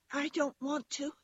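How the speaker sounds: high little rabbit voice; toy rabbit refusing. A narrator's reading. Toy rabbit refuses to hop for the wild rabbit, high and small. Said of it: "he said again".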